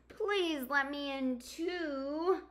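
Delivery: begging. Acted. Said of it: "begged Hedgehog".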